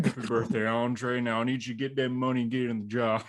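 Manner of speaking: a hint of Dutch giving orders. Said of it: "Do the Dutch voice".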